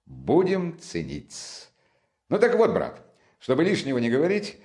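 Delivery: eager friend, swinging widely in pitch; lively Razumikhin. Acted. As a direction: confide it with animated enthusiasm.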